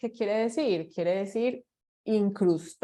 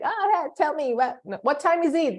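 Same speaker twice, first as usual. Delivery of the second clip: pitched-up, careless blunt ask; blunt, straight asking; 6 semitones higher, faster than usual. Shown as a demonstration. Teacher mocks a rude direct question to class. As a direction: demand it bluntly, no manners. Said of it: "you don't want to be straight".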